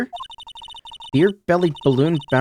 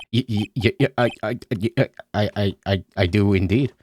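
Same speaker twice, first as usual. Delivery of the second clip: stuttering shy Ben; 2 semitones lower than usual. Acted. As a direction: trip over every word, painfully shy. Voices shy Ben character.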